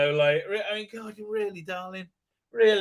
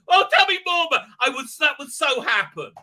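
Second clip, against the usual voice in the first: much higher and louder, eager geeky pleading; gushing fanboy; 8 semitones higher, 7 dB louder than usual. Retold or imitated. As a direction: beg for more like a giddy fan. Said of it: "I'll be like".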